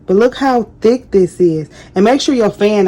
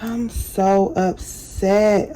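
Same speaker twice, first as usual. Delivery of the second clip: very slow, stretched sulk; slow sighing complaint; drawn-out upset; much slower than usual. Real, not acted. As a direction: drag every word out in dismay. Still upset about missed recording.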